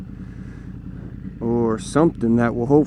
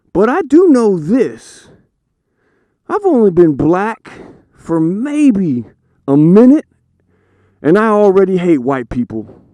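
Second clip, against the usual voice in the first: put-on higher, louder kid voice; little boy voice; 4 semitones higher, 5 dB louder than usual. Son answering his dad with the punchline, higher kid voice. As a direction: deliver it like a sure little kid.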